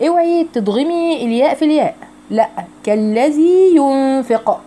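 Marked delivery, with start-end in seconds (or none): 2.8-4.6 كالذي ينفق with the two ي kept apart; no merging. Shown as a demonstration. Teacher corrects the merging for students, careful slow demo. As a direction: say كالذي, then ينفق separately. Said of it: "كالذي دي لوحدها مد طبيعي".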